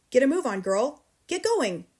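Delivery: loud, sharp father's command; barking orders. A narrator's reading. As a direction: hurry her up roughly. Father ordering girl to pack.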